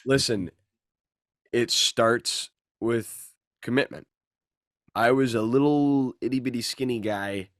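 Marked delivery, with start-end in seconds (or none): 0.1-4.1 personal trainer voice. Pretend. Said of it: "I know I sound like a personal trainer".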